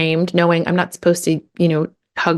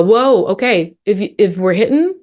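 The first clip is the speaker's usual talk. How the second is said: mildly urgent, slightly higher parent voice; matching the intensity; 3 semitones higher than usual. Shown as a demonstration. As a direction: step in with a touch of intensity. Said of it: "match the intensity".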